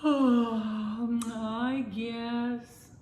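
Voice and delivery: sleepy yawn through the words. A narrator's reading. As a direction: yawn it out tiredly. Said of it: "said Spooky with a big yawn".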